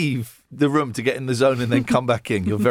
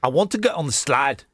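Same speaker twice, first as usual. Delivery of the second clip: put-on plainly done South African accent; a first light try at South African. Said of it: "My South African phrases".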